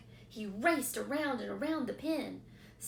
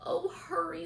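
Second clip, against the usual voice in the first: breathy urgent whisper; a pig in a hurry; 8 semitones higher, 5 dB louder than usual. A narrator's reading. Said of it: "said Wilbur".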